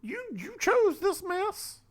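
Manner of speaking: sassy. Acted. Sassy teasing co-host.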